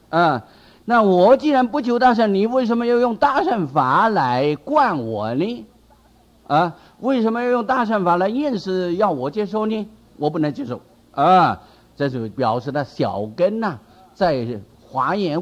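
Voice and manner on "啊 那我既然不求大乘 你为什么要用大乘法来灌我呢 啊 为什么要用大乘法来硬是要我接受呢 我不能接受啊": aggrieved refusal. Retold or imitated. Disciple refuses forced teaching.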